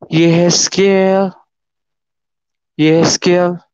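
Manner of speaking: long, held-out call of the name; big but gentle voice. Retold or imitated. A mysterious voice calls him in church, big but gentle. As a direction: imitate a grand voice calling, unhurried, not harsh. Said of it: "suara yang begitu besar, tapi tidak keras".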